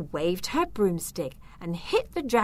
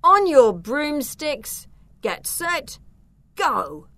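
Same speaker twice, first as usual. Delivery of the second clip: high, raised starter's call; race starter's cry; 7 semitones higher, 6 dB louder, slower than usual. A narrator's reading. Young wizard signalling the start of the race, crying out. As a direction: call the start, drawing out the first command. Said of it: "Edgar raised his arm and cried".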